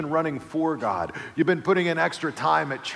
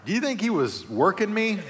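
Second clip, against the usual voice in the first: suspicious wonder; 7 semitones higher than usual. Retold or imitated.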